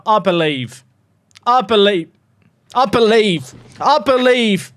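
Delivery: rising from hope to loud belief; I believe, climbing in pitch and volume; building belief. Real, not acted.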